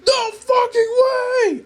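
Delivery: high, slow, stretched shriek of horror; horrified scream. Acted. Narrator seeing Jack burst into the house, horrified drawn-out scream. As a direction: scream it out in terror. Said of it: "I screamed in horror".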